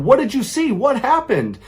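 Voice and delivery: high, frantic, loud panic; panicked questions. Retold or imitated. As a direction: fire the questions in terror. Daughter begging to know.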